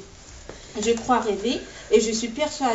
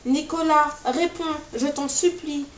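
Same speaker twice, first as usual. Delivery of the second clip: mother calling her son, anxious and higher; worried mother; 6 semitones higher than usual. A narrator's reading. Mother pleading with her son in hospital, anxious and raised. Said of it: "elle a l'air très inquiète".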